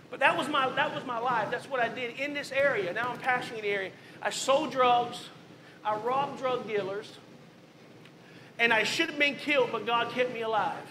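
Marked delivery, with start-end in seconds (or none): 4.2-5.3 slow emphatic statement. Real, not acted. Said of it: "slow emphatic summary". 5.8-7.1 slow emphatic statement. Real, not acted. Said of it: "slow emphatic summary".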